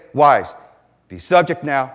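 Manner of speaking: mock-commanding, loud on "Wives"; hammed-up order from Paul to the wives; mock emphatic Paul. Preacher mocking a misreading of Paul to the church, mock-commanding. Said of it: "is Paul trying to say".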